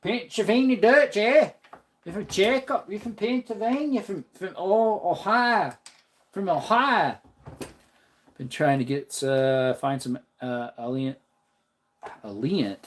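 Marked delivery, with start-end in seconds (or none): 0.0-7.2 high, sing-out Pennsylvania Dutch Amish accent. Shown as a demonstration. Streamer showing off a Pennsylvania Dutch accent for viewers, high Amish voice. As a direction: put on an Amish accent, pitched well up. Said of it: "Can you do an Amish accent?".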